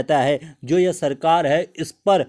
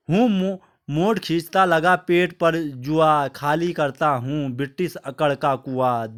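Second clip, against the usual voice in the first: poem recitation; 3 semitones lower than usual. Acted. (धीमे, गंभीर कविता पाठ)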